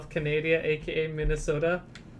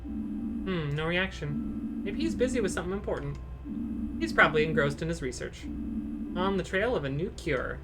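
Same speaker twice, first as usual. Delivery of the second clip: lightly voiced patients and staff, raised pitch; voiced game characters; 4 semitones higher than usual. Streamer reading game dialogue aloud, lightly character-voiced. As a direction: read each hospital character in a higher put-on voice.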